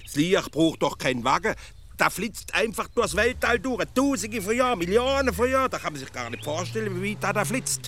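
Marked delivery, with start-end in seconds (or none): 2.0-5.7 rising higher and louder with amazement; carried away by the vastness, climbing as you go; a child marvelling at starlight, growing more excited; growing wonder. Acted. Wonder at light speeding through space.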